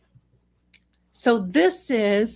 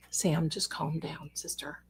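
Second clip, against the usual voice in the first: soft soothing; 3 semitones lower, 12 dB quieter than usual. Real, not acted. Talking softly to upset cat.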